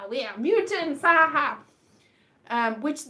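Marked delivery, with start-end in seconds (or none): 0.1-1.6 lightly voiced mutant. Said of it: "they're like".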